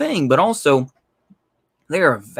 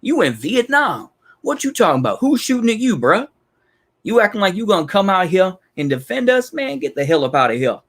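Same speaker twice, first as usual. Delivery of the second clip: higher-pitched, incredulous fake Southern accent; 3 semitones higher than usual. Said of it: "putting on somewhat of a fake Southern accent".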